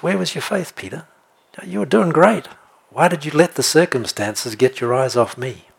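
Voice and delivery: acted gentle reproach. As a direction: chide a follower kindly, as Jesus. Voices Jesus gently correcting Peter.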